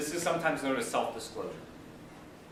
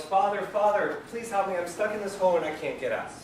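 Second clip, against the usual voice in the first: yelling for help; 5 semitones higher, 4 dB louder than usual. Acted. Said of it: "Guy yells".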